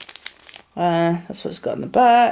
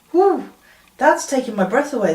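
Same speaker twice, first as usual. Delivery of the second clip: strong mint; 5 semitones higher than usual. Real, not acted. Reacting to strong mint tea.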